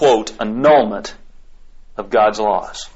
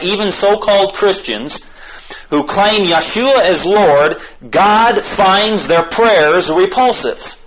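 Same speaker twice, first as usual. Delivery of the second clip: raised, higher preaching voice, drawn out; impassioned preaching; 7 semitones higher, slower than usual. Real, not acted. Preacher warning the congregation about so-called Christians, impassioned. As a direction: preach it with rising force, slowing down.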